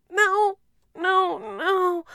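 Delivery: loud, high refusal; shouted no. Acted. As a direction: cry out the refusal. Captive refuses commander.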